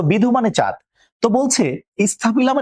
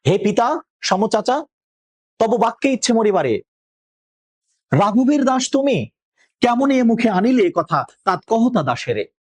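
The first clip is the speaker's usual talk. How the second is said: raised, pleading verse line, a touch of anguish; plaintive voice; 5 semitones higher than usual. Acted. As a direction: plead with your uncle, voice lifted and hurt. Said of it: "এবার কাতর কণ্ঠে রাবণী বলছে". (কাতর কণ্ঠে অনুনয়)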